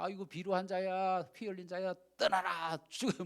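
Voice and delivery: slow, drawn-out mock cursing. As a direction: act out hurling insults at a fleeing king. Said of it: "막 욕을 합니다".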